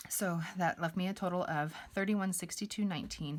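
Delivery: breathless, a little winded; out of breath. Real, not acted. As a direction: talk while catching your breath. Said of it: "Sorry, I'm out of breath".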